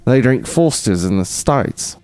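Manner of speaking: put-on Australian accent. Practising an Australian accent on a beer line. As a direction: state it in mock Australian. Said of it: "working on this Australian accent".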